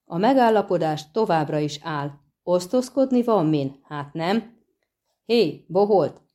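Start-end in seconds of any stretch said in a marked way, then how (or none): 5.3-6.2 calling down. Acted. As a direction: call out down from the wagon. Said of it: "kiáltott le Kajmán a szekérről". (lekiáltás a szekérről)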